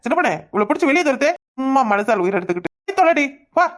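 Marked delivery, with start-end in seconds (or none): 2.9-3.7 angry shout. Acted. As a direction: drive her out with a shout. Husband drives wife away.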